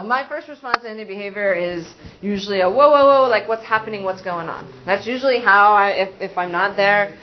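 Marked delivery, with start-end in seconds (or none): 2.7-4.7 put-on calm the child down, then ask gently; calming whoa. Shown as a demonstration. Teacher calming a child who threw something, soothing.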